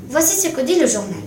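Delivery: usual speaking voice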